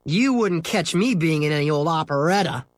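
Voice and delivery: lofty. Acted. Scooter scorning the operetta to Henry, lofty. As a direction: look down on the whole silly business. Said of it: "said Scooter loftily".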